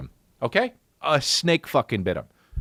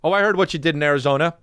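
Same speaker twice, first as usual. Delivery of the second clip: mocking snake; 5 semitones higher, faster than usual. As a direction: sneer it out quickly like a taunting snake. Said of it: "And then fucking".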